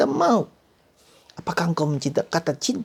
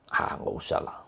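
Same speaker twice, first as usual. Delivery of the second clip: breathy, softer dismissive excuse; lazy shrug; 7 dB quieter than usual. Acted. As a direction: brush it off.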